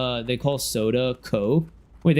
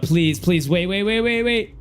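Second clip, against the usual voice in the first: rising rush of waits; urgent pleading; 4 semitones higher than usual. Real, not acted. Streamer begging for time in a game, urgent. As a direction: plead urgently, climbing higher.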